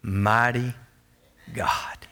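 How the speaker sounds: low, slow, falling to a whisper; hushed awe. Real, not acted. Preacher names who calmed the storm, hushed awe. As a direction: let each word hang, sinking into a hush. Awed climax after the miracle story.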